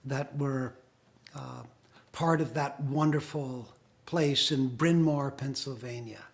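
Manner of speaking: muffled, distant, like under water; bad connection, sound swallowed; underwater. Real, not acted. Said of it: "Sounds like you're underwater".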